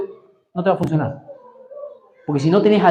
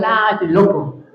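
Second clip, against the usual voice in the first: slow, dismissive sneer; drawn-out mock disdain; mocking scorn; 2 semitones higher, much slower than usual. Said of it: "te han dicho". (desprecio burlón, lento)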